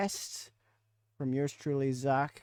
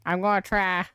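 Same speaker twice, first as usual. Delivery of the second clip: higher, louder redneck hillbilly; 4 semitones higher, 5 dB louder than usual. Acted. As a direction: answer like a hillbilly. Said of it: "hold up the full five minutes".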